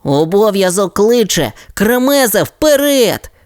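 high, rousing call to duty; heroic pup cry. Acted. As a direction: charge off like a hero pup. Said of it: "відповіло щеня".

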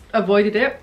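hiccuping mid-sentence; words broken by hiccups. Real, not acted. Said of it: "I can't stop hiccuping".

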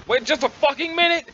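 shocked outburst. Acted. Sudden realization, disbelief.

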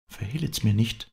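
high-pitched entreaty; pleading. A narrator's reading. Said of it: "flehte sie".

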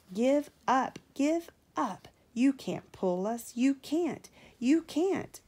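high, loud jeering chant; taunting call. A narrator's reading. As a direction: call it out to mock the engine. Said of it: "called the freight cars".

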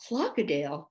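"Crocodile" said as "clock-o-dile", with an L for the R; correcting. A narrator's reading. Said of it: "corrected Ding".

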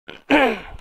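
harsh throat clearing; cough. Real, not acted. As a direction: clear the throat roughly, apologetic. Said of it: "Kusura bakmayın, öksürük tutuyor".

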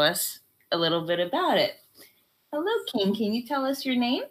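mock television host opening an exclusive interview; TV interviewer. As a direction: present it like a TV special, taking your time. Mother hosts a pretend TV interview.

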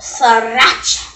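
"Sriracha" slow and drawn out; showy pronunciation. Shown as a demonstration. Host shows friend how to say the sauce, drawn-out "Sriracha". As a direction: stretch out "Sriracha" as a showy demonstration. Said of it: "You gotta say it like that".

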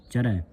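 ਚਰੈ with an open, weighted "ae"; correct heavy ending. Shown as a demonstration. Teacher corrects the reading, heavy ਚਰੈ with open ai. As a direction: lean on ਚਰੈ, widening its end. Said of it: "ਭਾਰਾ ਪੜ੍ਹਨਾ ਇਹਨੂੰ".

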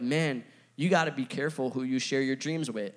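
lightly voiced speaker's line; imitating other speakers. Preacher imitating other speakers lightly with a quoted line. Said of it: "seen other speakers speak on it".

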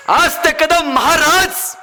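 slow rising suspense on कदम; slow dramatic. Acted. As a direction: stretch each word for suspense. Repeated dramatic phrase.

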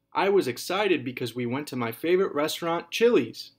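put-on kid's sentence read with excitement; excited. Shown as a demonstration. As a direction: build the excitement up to the restaurant name. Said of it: "I ended that with an exclamation mark".

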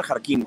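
"Jarquín" stressed on its final syllable; accent on the I. Shown as a demonstration. Host carefully reading out Adriana's surname, "Jarquín" stressed on the í. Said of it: "con acento en la I".

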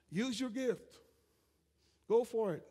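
high excited cheer of encouragement; urging on. Retold or imitated. Pastor voicing the church urging a member to speak in tongues, high and eager. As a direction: egg them on with a lifted voice.

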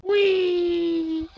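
high whooping cheer; gleeful shout. Real, not acted. Cheering a big play, gleeful high whoop. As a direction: let out a joyful whoop.

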